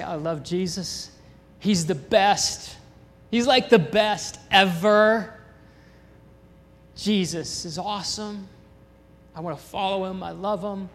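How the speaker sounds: put-on eager, childlike gushing, slowing on the best; gushing excitement. New believer at baptism telling everyone, eager and gushing. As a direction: gush like a kid about a hero.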